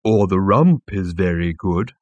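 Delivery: slow, relishing recommendation; lightly voiced bovine waiter; murmuring animal. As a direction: linger over the delicacy. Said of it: "murmured the animal".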